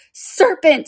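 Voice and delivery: high, sudden screamed accusation. A narrator's reading. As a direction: cry it out high like an alarmed bird. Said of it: "screamed the pigeon".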